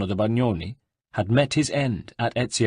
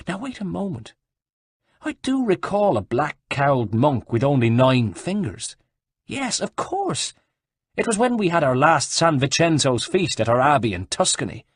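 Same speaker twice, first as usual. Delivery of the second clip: put-on old monk; 5 semitones higher than usual. Monk character voice.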